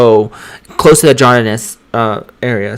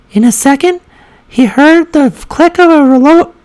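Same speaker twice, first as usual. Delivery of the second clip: very high, put-on reading voice; high feminine voice; 13 semitones higher than usual. Shown as a demonstration. Trying a sentence in the practice voice, high feminine voice. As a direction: read with the pitch held way up. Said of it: "when I start saying, reading it".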